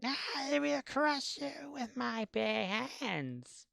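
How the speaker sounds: high, slow hammy warrior threat; barbarian. Retold or imitated. Echoes the villain sound clip.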